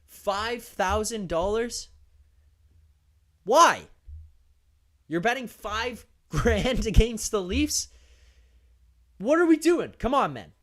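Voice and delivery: loud, high incredulous outburst; exasperated disbelief. Real, not acted. Incredulous at fan betting against Leafs.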